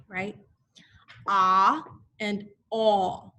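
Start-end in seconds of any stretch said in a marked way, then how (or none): 1.3-3.3 slow drawn-out sounds. Shown as a demonstration. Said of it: "They have the same sounds as A".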